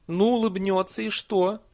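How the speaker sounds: high, loud retort; challenging Nanny. A narrator's reading. Nanny challenges villagers afraid of a witch's smile, defiant. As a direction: brush the fear aside with a challenge.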